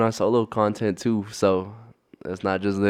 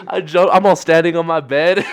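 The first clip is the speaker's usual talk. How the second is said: laughing; 5 semitones higher, 5 dB louder than usual. Real, not acted. Laughing while telling excited reaction.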